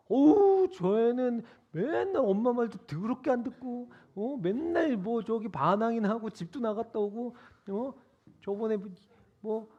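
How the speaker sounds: mild mocking complaint about a sibling; older sibling griping about the younger; a touch of scorn. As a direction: scoff at the troublemaker brother.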